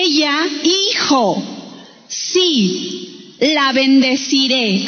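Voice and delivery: measured, slowed Bible reading; scripture reading. Acted. Preacher reading God's words to the congregation, deliberate scripture reading. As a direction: read the verse out deliberately, with pauses.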